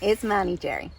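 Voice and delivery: loud, insistent American caricature, dropping off at the end; pushy mock-American hectoring; Francine's terrible American accent. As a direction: argue in a brash put-on American accent. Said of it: "terrible accent of Francine".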